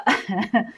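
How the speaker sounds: playful mock villain chuckle; evil laugh. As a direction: tease the tech guy with a sinister chuckle. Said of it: "That was such an evil laugh".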